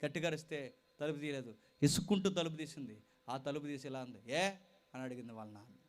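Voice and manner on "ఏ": arrogant. Retold or imitated. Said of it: "పొగరు".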